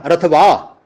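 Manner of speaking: ਰਥਵਾ said "rath-vaa", open falling ending. Shown as a demonstration. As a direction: end ਰਥਵਾ on long "aa". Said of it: "ਰਥਵਾਹੋ ਨਹੀਂ ਕਹਿਣਾ". (ਰਥਵਾ, ਔਂਕੜ ਚੁੱਪ ਰੱਖ ਕੇ)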